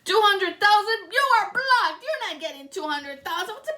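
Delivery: shocked loud refusal; indignant outburst. Real, not acted. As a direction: snap back at the greedy ask. Outraged at greedy demand.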